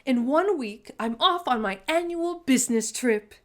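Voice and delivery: grand announcement. Acted. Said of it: "Auntie Claus announced".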